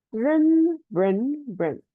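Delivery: 认 loud and high first, then stepped through the tones; tone drill. Shown as a demonstration. Teacher drilling 认 for fourth tone, stepping through tones. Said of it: "yes, fourth tone".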